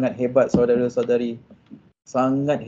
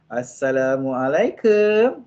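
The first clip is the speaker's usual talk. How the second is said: tender greeting; 3 semitones lower, much slower than usual. Shown as a demonstration. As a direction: stretch it gently so she wants to hug you. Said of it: "Memang kena peluk".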